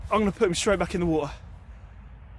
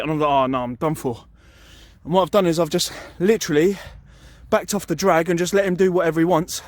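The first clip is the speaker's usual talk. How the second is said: breathless after landing a fish; out of breath. Real, not acted. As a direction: talk between quick breaths. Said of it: "I'm a bit out of breath".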